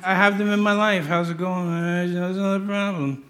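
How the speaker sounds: droning mock-miserable moaner; dolorous. Preacher imitates a gloomy acquaintance listing problems, dolorous drone. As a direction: drone on as a person full of woes. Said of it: "someone who's dolorous".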